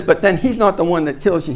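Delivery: put-on Australian film character's accent, lightly done. Movie expert warning scientists about raptors, Australian accent. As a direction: give it an Australian lilt. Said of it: "I love to do the Australian accent".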